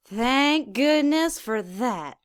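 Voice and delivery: slow, drawn-out sarcastic relief; dry sarcasm. Acted. Reader mocking the author's disclaimer, slow and dry. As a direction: drawl it with mock gratitude.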